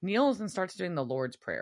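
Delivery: ordinary delivery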